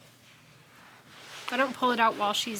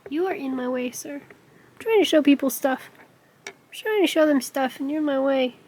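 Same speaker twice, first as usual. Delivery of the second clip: mock scolding; 3 semitones higher, 6 dB louder than usual. Scolding cat in the way.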